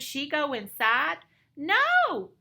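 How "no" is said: high squeaked outburst; startled little squeak; frightened squeak. A narrator's reading. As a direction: squeak it out sharply, much higher and a little louder. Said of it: "squeaked Penelope".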